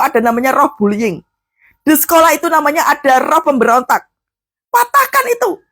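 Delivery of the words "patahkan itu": high-pitched, forceful exhortation; urgent command. Real, not acted. Preacher urges parents against bullying spirit, high urgent command. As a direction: order it broken, voice pitched up.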